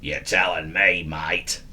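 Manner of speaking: low, soft grumbling eel voice; a grumpy eel grumbles from the river; gruff grumble. Acted. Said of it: "grumbled a particularly gruff voice".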